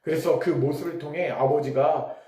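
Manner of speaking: ordinary talk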